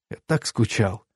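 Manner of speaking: soft, tender near-whisper; murmured whisper. A narrator's reading. Man to the lover he missed, murmuring softly. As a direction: drop the volume, as if into someone's neck. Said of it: "шептал я".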